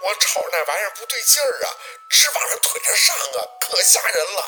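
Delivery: high, fast, quavering tearful plea; tearful panic. A narrator's reading. Aunt begging Baosi to hurry home, tearful panic. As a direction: plead frantically, close to crying. Frantic aunt grabs the phone.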